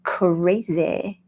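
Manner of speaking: fast, busy inner voice ticking off labels; a hint of a fussy inner critic; imitating the analytical mind. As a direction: rattle it off like an overthinking mind. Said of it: "the heady side of you goes".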